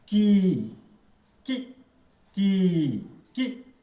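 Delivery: कि clipped short, quick ि; short vowel. Shown as a demonstration. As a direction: say कि in a quick burst. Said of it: "यानी दो second में".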